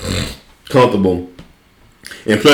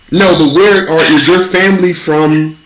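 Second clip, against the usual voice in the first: slow, higher grilling; slow pressing question; 5 semitones higher, slower than usual. Pretend. Pressing the fake Brit about family, in a slow pushy voice. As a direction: drag it out to corner him.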